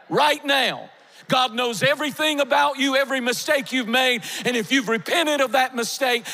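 fervent sermon climax; preaching at full force. Acted. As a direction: lift it up and press it home to the church.

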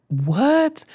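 high, loud disbelieving cry; incredulous outburst. Retold or imitated. Reacting to being wrongly punished.

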